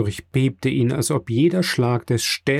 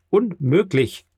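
higher, exclaimed denial; emphatic disbelief; 6 semitones higher, slower than usual. A narrator's reading. Morel refusing to believe the news, emphatic disbelief.

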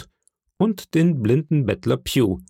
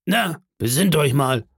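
higher-pitched needling landlord voice; Silver, sarcastic interrogator; 6 semitones higher than usual. Acted. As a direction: needle the sailor for an answer.

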